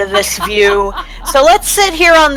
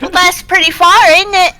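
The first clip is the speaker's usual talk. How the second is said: put-on slightly Cockney accent; 8 semitones higher, faster than usual. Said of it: "slightly London Cockney kinda".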